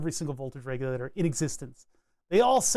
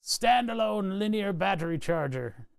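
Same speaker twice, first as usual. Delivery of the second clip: put-on Skarsgård accent; 3 semitones higher than usual. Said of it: "Why do I sound like Skarsgård for a second there?".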